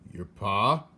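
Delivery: loud shouted question. Acted. Soldier shouting to hard-of-hearing Mig. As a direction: shout it so she hears. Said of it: "shouted the soldier".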